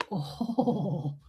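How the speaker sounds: soft, drawn-out "oh"; low-key groan of relish; pleasured moan. Real, not acted. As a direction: let out a long, savouring oh. Relishing the garlic find.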